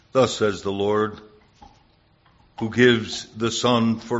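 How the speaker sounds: measured, solemn scripture reading. Acted. Preacher reads Jeremiah to the church, solemn reading.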